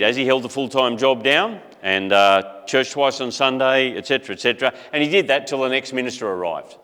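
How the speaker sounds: usual speaking voice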